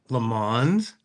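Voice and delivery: Le Mans said "luh MAHNZ", final N and S sounded; unsure pronunciation. Real, not acted. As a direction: ask "Le Mans?" with a voiced NZ ending. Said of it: "I don't know how to pronounce this".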